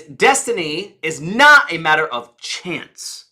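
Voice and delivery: slow, NOT stressed, CHANCE set apart and dropped; emphasis. Shown as a demonstration. Coach reviews the emphasized words, slow and emphatic. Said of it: "So I emphasized".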